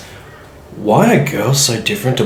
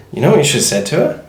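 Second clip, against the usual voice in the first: laughing; 4 semitones higher, much faster than usual. Real, not acted. Laughing retelling to friend.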